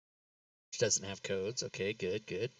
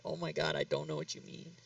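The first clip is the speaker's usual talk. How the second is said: mock baffled whisper; 3 semitones higher, 10 dB quieter than usual. Retelling own confused reply.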